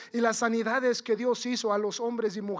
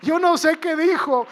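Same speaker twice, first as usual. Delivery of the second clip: high, loud preacher's cry; preaching at full force; 6 semitones higher, 10 dB louder than usual. Real, not acted. Preacher imagining the healed leper's praise, shouting. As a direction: throw it out at full volume.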